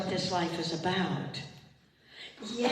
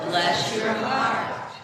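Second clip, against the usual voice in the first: louder and slower, leading the crowd; louder blessing; 3 semitones higher, 7 dB louder, much slower than usual. Shown as a demonstration. Pastor leading the congregation in a louder, slower blessing. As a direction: call it out so they join in. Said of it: "Say it, let's say it".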